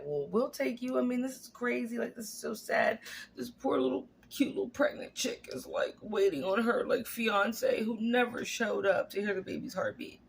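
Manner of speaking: put-on high, sympathetic cooing about the poor girl; pitying customers voice. Customer to coworkers, a high pitying coo.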